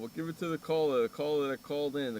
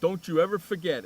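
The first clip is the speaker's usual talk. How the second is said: loud, higher on-air bragging; mock boast; 4 semitones higher, 5 dB louder than usual. Real, not acted. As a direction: crow at the caller like a showman.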